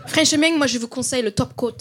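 Marseille accent as a nail-salon worker; hesitant put-on Marseille accent; mock Marseille accent. Shown as a demonstration. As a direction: try a Marseille accent, advising a client. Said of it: "on dirait que tu travailles à l'onglerie".

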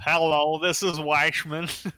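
put-on loud, slow Jewish accent greeting; hammed-up Jewish accent, drawn out. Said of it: "It's my Jewish accent".

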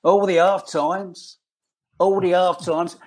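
slow, drawn-out mock street cry; newspaper seller's call. Fan imitating the newspaper seller outside the ground, mild mock shout. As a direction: call it out lightly like a paper seller, stretching the words. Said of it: "and he'd be shouting".

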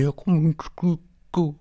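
high, muffled plea; squeezed, high-pitched muffled words; muffled victim. Acted. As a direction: plead through a hand over your mouth. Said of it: "skakar vilt sin".

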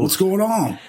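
high New York American voice; New York accent. Pretend. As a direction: greet him like a New Yorker. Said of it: "maybe New York".

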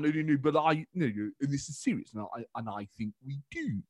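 stammer, then ease into a measured close; slowed down. Retold or imitated. Politician saying this is serious, slowed-down sincerity. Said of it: "there are times when it really slow down".

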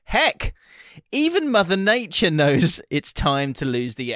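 playful sponsor read, lightly hammed. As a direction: read the ad copy with a grin. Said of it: "Now, let me read".

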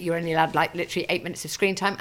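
ordinary talk

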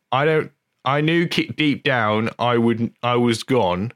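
lightly attempted Norfolk accent; halting try at a Norfolk country accent; Hot Fuzz voice. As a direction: feel for a comic Norfolk accent. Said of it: "Hot Fuzz voice".

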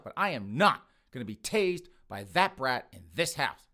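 mildly angry, emphatic venting; indignant rant. Acted. Tased mother fed up with her son, indignant rant. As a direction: pile up grievances, hitting key words.

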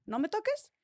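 retold warning. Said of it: "Le dije".

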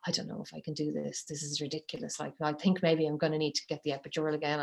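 hushed inner doubting; a soft muttered inner monologue. Retold or imitated. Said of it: "internally going".

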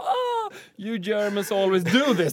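mild mock posh Londoner; posh English lady. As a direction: look down your nose at the Germans. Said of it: "Medan den här engelskan bara".

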